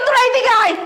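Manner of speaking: furious bride yelling she won't stay married; angry yell. Acted. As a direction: shout it out in rage. Bride berating cheated husband.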